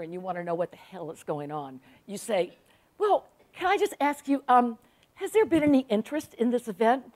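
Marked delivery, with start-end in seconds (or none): 3.0-7.0 higher, careful polite question; tactfully ask, pitched up; courteous, tentative probing; polite inquiry. Retold or imitated. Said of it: "That's the polite way of saying".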